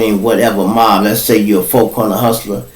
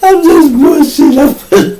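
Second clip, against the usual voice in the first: laughing; 3 dB louder than usual. Real, not acted. Laughing disclaimer.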